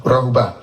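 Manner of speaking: Rahuba said with one tone; Rahuba, tone demo. Shown as a demonstration. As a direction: say "Rahuba" with a falling tone. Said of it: "I'll give you an example".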